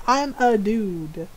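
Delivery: slow, stretched deadpan; deadpan protest. Retold or imitated. Ron after being called ma'am, slow deadpan protest. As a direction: spell it out slowly, word by word.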